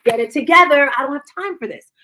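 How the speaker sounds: high-pitched mock impatience; snippy, acted-out irritation; exasperated impatience. Hates repeating herself to someone, exasperated. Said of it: "I personally hate repeating myself".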